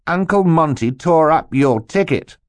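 high, loud crowing; triumphant. A narrator's reading. Boy telling the villain his ticket is gone, triumphant. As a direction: announce it in triumph. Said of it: "Klaus replied triumphantly".

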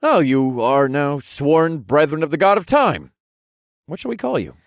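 high, loud grand announcement; proclaiming. Acted. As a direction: declare it to the whole group. Hero proclaims the new brethren.

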